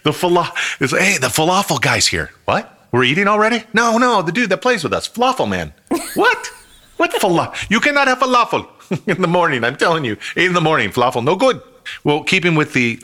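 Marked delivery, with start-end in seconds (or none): 1.0-11.6 put-on Middle Eastern accent. Players talk in accent voices.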